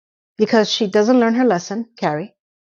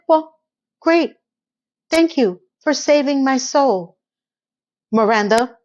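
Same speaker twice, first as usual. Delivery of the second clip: sarcastic, slow thank-you; a hint of a bitter boyfriend; sarcastic snap; 2 semitones higher than usual. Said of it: "He completely snapped".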